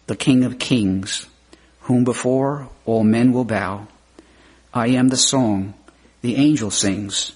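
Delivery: measured, emphatic reading with every am stressed; poem recitation. Acted. Preacher reciting the Christ poem to the congregation, solemn recitation. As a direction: recite it like a hymn, line by line.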